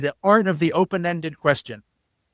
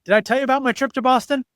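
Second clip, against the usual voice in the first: higher, fast hijacking the story; self-absorbed interrupter; 5 semitones higher, faster than usual. Retold or imitated. Relative hijacking the travel story, self-absorbed interruption. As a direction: grab the topic back to yourself. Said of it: "instead they're like".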